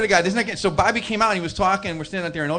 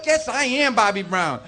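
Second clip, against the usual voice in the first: slow, higher retold protest; emphatic insistence; 4 semitones higher, 4 dB louder, slower than usual. Bobby insists to the doubting cook, emphatic. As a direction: imitate stubbornly insisting word by word.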